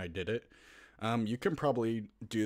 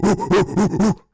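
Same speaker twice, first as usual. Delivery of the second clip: loud, higher, rapid ooh-ooh calls; excited monkey hooting; 10 semitones higher, 13 dB louder, much slower than usual. Shown as a demonstration. Getting viewers into the monkey character, loud hooting. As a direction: go full monkey, hooting hard. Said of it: "Get into character".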